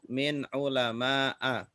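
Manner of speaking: "Min ulama'a" slowly, glottal stop before final A; model reading. Shown as a demonstration. Teacher repeats the correct answer, slow model reading of Min ulama'a. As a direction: stretch "Min ulama'a", ending on separate short A. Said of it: "maka bacanya".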